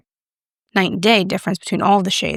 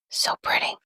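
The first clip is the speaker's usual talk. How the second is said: soft, unvoiced whisper; hushed, admiring whisper; 7 dB quieter than usual. Real, not acted. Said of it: "I don't know why I'm whispering".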